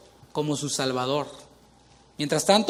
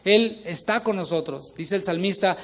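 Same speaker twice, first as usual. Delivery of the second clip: ordinary talk, nothing marked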